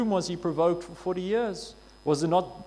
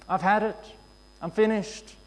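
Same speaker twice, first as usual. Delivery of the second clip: exasperated outburst, louder; fed up; 4 semitones higher, 3 dB louder than usual. Pretend. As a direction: at the end of your rope. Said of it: "you just say".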